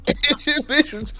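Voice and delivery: loud, high, slowed by laughter; laughing hard. Real, not acted. Storyteller losing it over his own scream, laughing hard. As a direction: squeeze the words out through real laughter.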